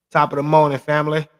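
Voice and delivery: bright, loud opening shout; loud greeting. Real, not acted. Vlogger greeting his followers, loud and hyped. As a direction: call it out to the viewers.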